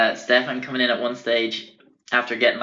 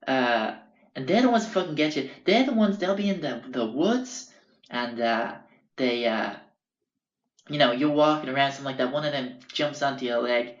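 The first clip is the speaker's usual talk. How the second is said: imitating Frank; 3 semitones higher than usual. Frank warns about deadly spider.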